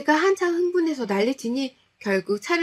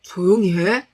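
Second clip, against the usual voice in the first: hushed command; 6 dB louder than usual. Acted. Opening line, husband hushing.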